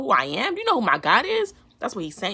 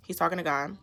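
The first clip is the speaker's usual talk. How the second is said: quick whispered side note; whispered aside; 3 semitones lower, 5 dB quieter than usual. Real, not acted. Host aside to viewers in a whisper. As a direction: drop to a whisper to explain.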